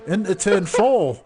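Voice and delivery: excited laughing commentary. Real, not acted. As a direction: laugh through the cheeky move. Laughing at a surprise move.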